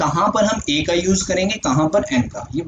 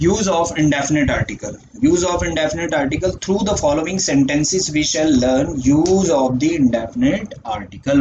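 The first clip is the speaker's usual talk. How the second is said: slow dictation; much slower than usual. Shown as a demonstration. Teacher dictates rule slowly.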